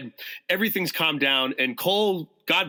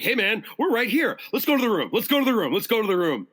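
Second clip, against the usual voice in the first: retold urgent coaxing; 6 semitones higher than usual. Retold calming of an enraged friend.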